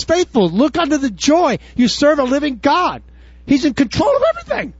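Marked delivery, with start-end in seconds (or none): 3.5-4.7 excited preaching. Real, not acted. Preacher builds to a peak.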